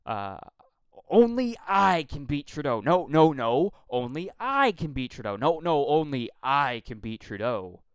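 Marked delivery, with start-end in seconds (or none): 1.1-2.8 loud mocking parody of a campaign slogan; mocking candidate. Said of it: "three things that were being repeated". 2.8-3.7 loud exasperated no, no, no; loud dismissive no. Real, not acted. Cutting off the mocked slogan. 3.9-5.4 louder mocking parody of the slogan; mocking candidate. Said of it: "three things that were being repeated". 5.9-7.8 louder mocking parody of the slogan; mocking candidate. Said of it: "three things that were being repeated".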